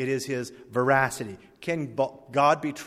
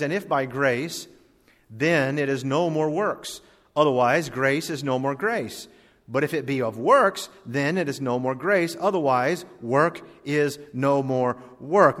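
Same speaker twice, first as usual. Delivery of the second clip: scripture reading. Acted. Reads verse six slowly.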